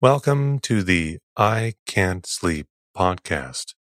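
soothing. Real, not acted. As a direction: lull them toward sleep. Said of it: "to bore you to sleep with my soothing voice".

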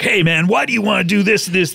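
pushy, confrontational "Hey, man"; accusing tone. Shown as a demonstration. Retelling Todd's approach to sound hostile, accusing. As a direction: make Todd sound like the bad guy. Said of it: "the tone of voice and the impression I'm doing of you makes you the bad guy".

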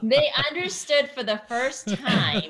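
amused telling; laughing. Real, not acted. Laughing while telling funny story.

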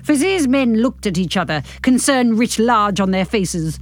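measured novel-reading voice; story narration. A narrator's reading. Narrator reading a novel to podcast listeners, measured narration. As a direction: read the story out with care. Reads the epilogue aloud.

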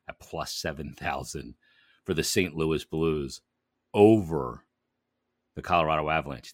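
upbeat sponsor read; hyped betting ad. Acted. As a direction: sell the app with energy. Host reads sponsor ad.

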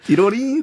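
sing-song "ティロリーン" jingle; imitated app chime. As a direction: mimic a little correct-answer chime. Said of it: "っていうのがね".

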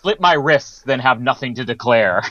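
low, grim Bond impression; deadpan it low as a brooding spy; Daniel Craig. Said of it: "Daniel Craig".

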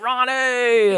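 high, drawn-out imitation of a hoot; mock hooting. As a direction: hoot the name like a partying buddy. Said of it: "he's all hooting with his friends".

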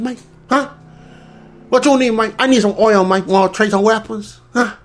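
mock Latino deal-making accent; put-on Latino accent. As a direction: haggle in a hammed-up Latino accent. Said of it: "He's gotta put on the accent".

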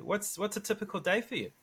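ordinary delivery

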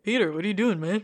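lightly voiced annoyed jerk classmate; a hint of a snotty teen scolding a friend; douchebag classmate. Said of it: "his douchebag friend's like".

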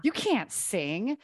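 retold self-criticism; inner critic. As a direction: drag out the put-down like a scolding inner voice. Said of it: "that voice coming through and being like".

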